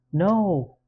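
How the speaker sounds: loud, high scream waking from a nightmare. Acted. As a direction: cry out in horror. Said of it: "I'm screaming".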